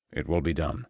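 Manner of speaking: hushed, low-voiced contact; low mysterious man. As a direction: speak it low and secretive.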